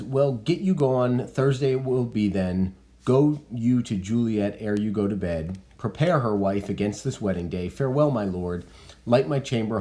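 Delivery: reading Capulet. Acted. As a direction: read out Capulet's orders with weight. Teacher reads Capulet's lines aloud.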